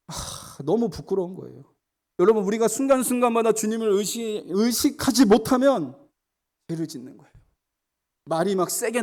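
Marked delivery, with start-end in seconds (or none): 2.2-5.9 full-force sermon voice; fervent preaching. Acted. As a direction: press the congregation hard from the pulpit.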